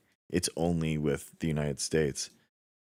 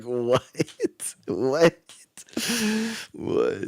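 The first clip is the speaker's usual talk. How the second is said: baffled; 9 semitones higher, much slower than usual. Retold or imitated. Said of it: "And I was like".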